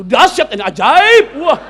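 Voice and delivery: slow, loud, high hammed-up praise; gushing mock admiration, drawn out; mock flattery. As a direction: stretch out the exaggerated compliment. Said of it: "Gua nggak W A lagi".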